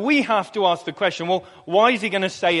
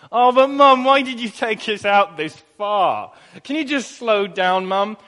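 put-on kids whining. Tired boys whining to Mum on a country walk. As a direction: whinge like a worn-out kid on a long walk. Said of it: "we just whine and whinge at her".

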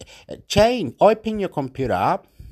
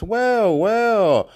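imitating the Argentinian guy; 8 semitones higher, 3 dB louder than usual. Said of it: "that Argentinian guy goes".

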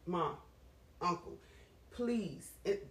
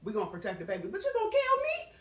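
voicing her body; 3 semitones higher, 4 dB louder, faster than usual. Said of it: "your body is so smart that it's like".

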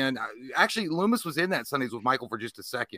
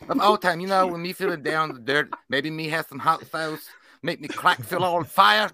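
put-on higher, playful baby talk pitch for a goofy sandwich ad; 3 semitones higher than usual. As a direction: talk like you're cooing to your dogs, pitched up. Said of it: "it's my baby talk voice".

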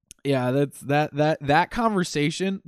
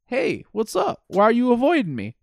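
Ralphie voice; 8 semitones higher than usual. Retold or imitated. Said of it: "and he's like".

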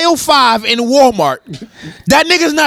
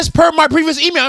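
higher-pitched mock disbelief; incredulous quoting; 6 semitones higher than usual. Questioning a co-host's comeback to T I, incredulous quoting. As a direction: throw their phrase back in disbelief. Incredulously quotes back the other's line.

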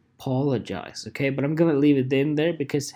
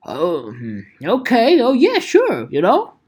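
put-on clueless teen; 3 dB louder than usual. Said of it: "And the teenager goes".

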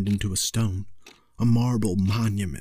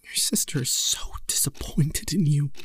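whisper; 5 semitones higher than usual. A narrator's reading. Mother's cold reproach.

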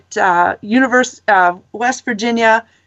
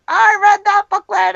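pitched way up, imitating an annoyed student; mock angry quote; 9 semitones higher than usual. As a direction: mimic his indignant complaint, half joking. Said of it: "he was so mad".

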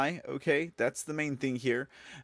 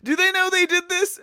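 much higher, louder disbelieving question; incredulous laugh; 9 dB louder than usual. Real, not acted. Host asks viewers about a photo, high incredulous laugh.

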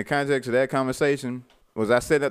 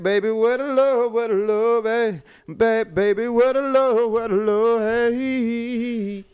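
higher, louder hype call asking for love; hyped return; 11 semitones higher, 4 dB louder, slower than usual. Real, not acted. Co-host greets the crew after returning, hyped and loud. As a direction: cheer yourself back in like a star walking out.

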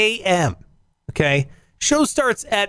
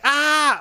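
startled yelp; 9 semitones higher than usual. Retold or imitated. Acted yelp at hot handle.

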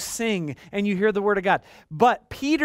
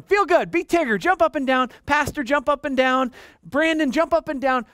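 mock hype-man; 6 semitones higher than usual. Mocking pump-up hype.

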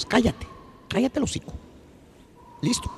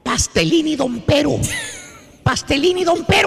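calling out trigger words. Acted. Maestro calling keywords to trigger the turqui's laugh.

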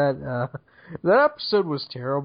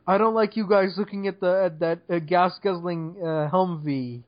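mocking whine, slightly higher; whiny imitation; 3 semitones higher than usual. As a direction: mimic her whining complaint. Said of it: "such a whiny fucking bitch".

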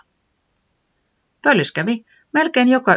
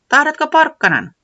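hospitable offer; 13 semitones higher, 6 dB louder than usual. A narrator's reading. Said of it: "kysyi vieraanvaraisesti".

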